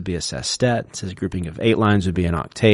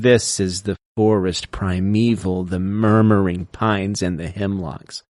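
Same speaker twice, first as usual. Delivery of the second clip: slow reading of "the forest primeval, the murmuring pines and the hemlocks", first syllables stressed; dactylic reading; slower than usual. Shown as a demonstration. Reading Longfellow to show the dactyl, slowly, in waltz time. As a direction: waltz it: FOR-est pri-ME-val, MUR-mur-ing PINES. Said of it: "That's from Evangeline".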